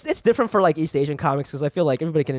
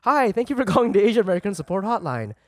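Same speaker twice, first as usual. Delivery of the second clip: measured automated greeting; hotline recording; 3 semitones higher than usual. Retold or imitated. Comic replaying the hotline he called, recorded-greeting voice. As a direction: imitate a recorded phone menu. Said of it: "and it was like".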